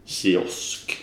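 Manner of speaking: "kiosk" opening on a hushy tje-sound; soft tje-sound. Shown as a demonstration. Guest giving example of soft-vowel rule, tje in "kiosk". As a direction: say "kiosk" like "tjiosk". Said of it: "så uttalar man ju ett K-ljud".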